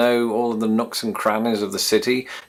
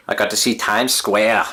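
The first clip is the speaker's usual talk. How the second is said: Forrest Gump lady. Retold or imitated. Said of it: "I don't know why I said it like that".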